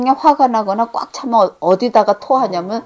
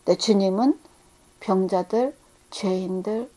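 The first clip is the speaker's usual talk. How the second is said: whisper; 4 semitones lower, 9 dB quieter than usual. Acted. Hushed close of point.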